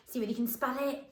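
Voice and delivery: normal talking voice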